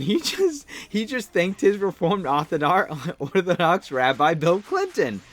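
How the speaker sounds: words broken by real laughter; giggling through the absurd line; laughing while retelling. Real, not acted. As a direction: chuckle your way through the punchline. Retelling the troll's funny speech.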